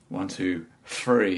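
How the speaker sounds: "three" said as "free"; count, putting an F on "three". Shown as a demonstration. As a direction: set "three" apart, starting with F. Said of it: "I can only say".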